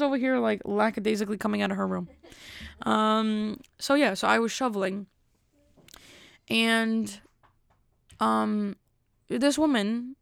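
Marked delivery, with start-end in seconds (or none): none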